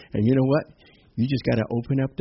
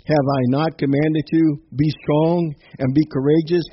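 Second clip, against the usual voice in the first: forceful, rising proclamation of a verse; emphatic scripture reading; 2 semitones higher, 4 dB louder than usual. Real, not acted. Preacher declares Joshua's verse to the congregation, emphatic.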